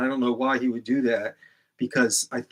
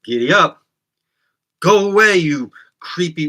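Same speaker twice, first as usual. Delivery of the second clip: louder, higher, spat out with venom; more vitriol; 5 semitones higher, 10 dB louder than usual. Shown as a demonstration. Host redoing his greeting with more vitriol at trolls. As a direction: really spit the words at them. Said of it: "I'll say it like, you know, more vitriol".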